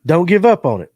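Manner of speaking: laughing. Shown as a demonstration. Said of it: "Why'd you say it like in a sexy voice".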